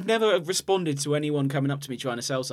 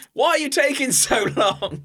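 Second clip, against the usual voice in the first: high, loud complaint through the door; hammed-up yell at someone hogging the toilet; mock impatient shout; 10 semitones higher, 6 dB louder than usual. Voicing impatient caller outside toilet.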